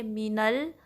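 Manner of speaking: मीनल recited with a light rise; recitation demo. Shown as a demonstration. Teacher to students, demonstrating the joined word. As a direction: recite मीनल, joining noon to laam. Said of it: "इस तरीके से पढ़ेंगे".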